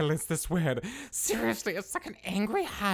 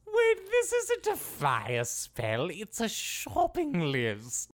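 surprised realization; 2 semitones higher, slower than usual. Acted. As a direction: realize it slowly. Realizing spell is list.

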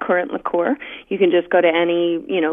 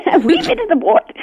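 "a wee bit" laughed out much higher, a playful hint of Scottish; mock Scottish; 11 semitones higher than usual. Teased by the host into being Scottish, laughing mock Scottish lilt. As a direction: giggle through "a wee bit of the port" as a jokey Scot. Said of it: "You can be Scottish today".

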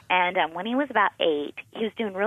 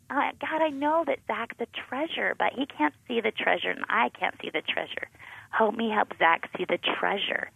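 quiet earnest prayer; 4 semitones higher, 5 dB quieter than usual. Retold or imitated.

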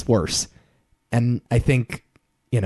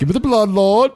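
imitating Daniel's plea; 9 semitones higher, 4 dB louder than usual. Mocking the movie's blood scene.

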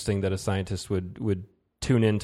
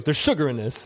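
raised-pitch retold complaint; mildly affronted; 5 semitones higher than usual. Friend tasting barbecue-place cornbread, mildly affronted imitation. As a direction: imitate a diner's first objection, held in check. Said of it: "Like it was wrong".

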